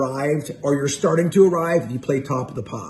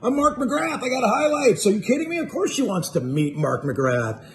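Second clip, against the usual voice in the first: cocky self-assurance; 5 semitones higher than usual. Retold or imitated. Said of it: "I'm going".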